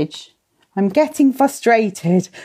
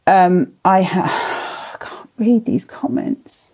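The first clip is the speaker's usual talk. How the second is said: frustrated whisper; slower than usual. Real, not acted. Struggling to read comments.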